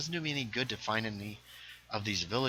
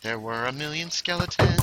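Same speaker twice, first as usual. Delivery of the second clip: raised pitch, less forceful; toned-down repeat; 5 semitones higher, 4 dB louder than usual. Real, not acted. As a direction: climb gradually in pitch without shouting. Repeats line in lesser voice.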